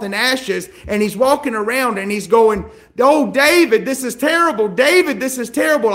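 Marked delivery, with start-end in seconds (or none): 3.0-5.9 raised, louder mock wailing; hammed-up cry of dismay; acted lament. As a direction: lament dramatically, pitched up high. Acts Hushai lamenting in sackcloth.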